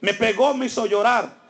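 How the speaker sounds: mild mock yell, tattling to dad; child yelling. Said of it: "comienza a gritar". (niño acusando a gritos fingidos, voz aguda)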